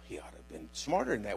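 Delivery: mock irritated Christian. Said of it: "we think".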